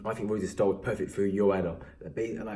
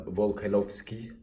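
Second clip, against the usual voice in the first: Volkanovski in a slow Russian-style accent; put-on Russian accent; slower than usual. Real, not acted. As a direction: slip into a Russian accent on the name. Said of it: "sorry if I put an accent on".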